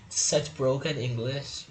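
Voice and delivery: slow words through a laugh; real chuckle breaking into the words; amused laugh. Real, not acted. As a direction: laugh while remarking on it. Laughs at the tutorial's wording.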